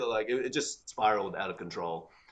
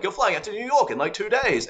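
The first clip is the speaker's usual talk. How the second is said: retold bosses' order; 11 semitones higher, 5 dB louder than usual. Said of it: "they were like".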